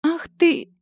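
a high loud cry; girl crying out as she's shoved; indignant shout. A narrator's reading. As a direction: shout in outrage as you fall. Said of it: "крикнула я".

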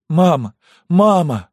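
very high, loud sobbing cries. Acted. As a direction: wail it out in tears. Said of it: "не переставая рыдать". (рыдая, зовёт маму)

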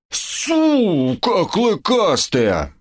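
slow, drawn-out frustrated roar; roaring in frustration. Acted. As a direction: bellow it out in dismay. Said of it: "заревел гоблин в расстройстве".

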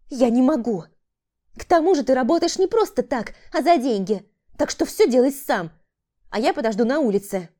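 defiant woman. A narrator's reading. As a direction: brush him off. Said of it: "и процедила". (холодный отказ)

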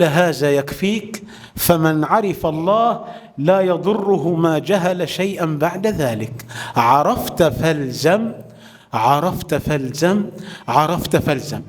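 low, slow, weighty advice; slow solemn counsel. Acted. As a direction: lay down the counsel slowly. Uways gives solemn counsel. (نصيحة بطيئة وقورة)

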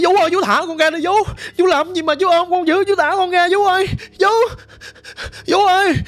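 retold pleading. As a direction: call out to the nanny, begging for release. Child struggling, pleading to nanny. (kể lại giọng van nài, cao giọng)

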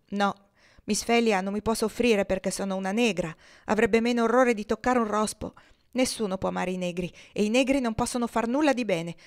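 lightly voiced slave girl, bitter; a hint of a sulky young girl; defiant girl's voice, mildly played; Topsy.

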